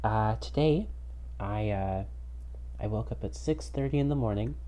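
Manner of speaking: tinny headphone mic sound; headphones used as mic. Real, not acted. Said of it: "I'm talking into my headphones".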